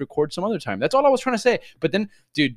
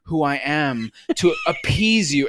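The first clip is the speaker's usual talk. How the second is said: mock dramatic cohost; slower than usual. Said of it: "throwing it on me".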